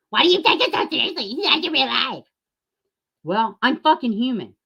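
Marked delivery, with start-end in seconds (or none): 0.1-2.2 mock critic voice. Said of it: "imagined critic asks why".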